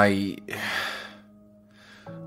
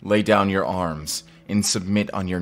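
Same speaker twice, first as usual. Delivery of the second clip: raised, declaiming arrest announcement; formal proclamation; 2 semitones higher, 4 dB louder than usual. Acted. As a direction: proclaim it for all the troops to hear. Formal arrest before troops.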